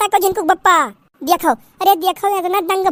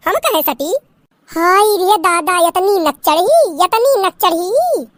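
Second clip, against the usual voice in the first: wailing mother-in-law; 3 semitones higher than usual. Acted. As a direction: cry out to the heavens in shame. Mother-in-law mocking the bride.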